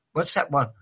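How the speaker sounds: breathless after singing; gasping between words; out of breath. Real, not acted. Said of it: "I'm out of breath again now".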